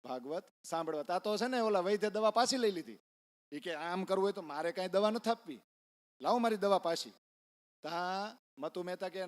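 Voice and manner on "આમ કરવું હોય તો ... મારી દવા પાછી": annoyed doctor. Retold or imitated. Doctor angrily takes medicine back.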